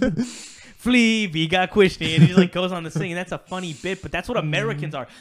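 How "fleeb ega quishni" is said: put-on made-up foreign language, higher and louder. Retelling a joke from the Drake and Josh movie, imitating a kid speaking gibberish. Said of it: "is speaking some weird language".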